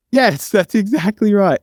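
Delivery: slow, high, drawn-out sarcastic yes; hammed-up deadpan surrender; sarcastic agreement. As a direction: agree with mock sincerity, stretching it.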